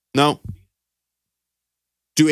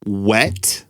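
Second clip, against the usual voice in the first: sultry; 4 semitones lower, much slower than usual. Retold or imitated. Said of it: "a strange woman in a sultry voice".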